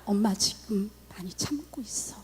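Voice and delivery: hushed, holding back anger; mother whispering, barely holding in anger; restrained whisper. Retold or imitated. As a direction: whisper through clenched restraint. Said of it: "속에서 부들부들 떨면서".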